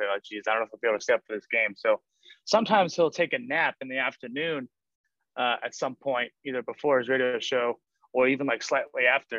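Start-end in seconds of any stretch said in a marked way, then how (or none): 0.1-1.7 put-on grumbling mutter under breath, lower pitch. Imitating him grumbling about staying up for the game: imitating him muttering under his breath. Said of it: "under his breath".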